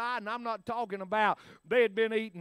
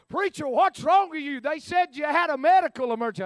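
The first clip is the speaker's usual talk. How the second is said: worried friend; 5 semitones higher, 5 dB louder than usual. Retold or imitated. Friend runs off plane worried.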